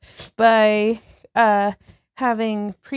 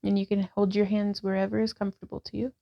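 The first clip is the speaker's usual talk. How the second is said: calm, even guiding voice, a touch softer; guided yoga instruction; 4 dB quieter than usual. Acted. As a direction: talk the class through each pose gently. Leads a yoga class.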